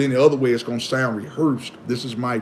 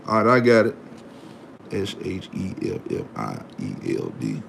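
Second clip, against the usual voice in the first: low murmured letters, spelled out one by one; quiet spelling; 11 dB quieter than usual. Real, not acted. Spelling a viewer's name to himself, quietly murmured. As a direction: murmur each letter under the breath.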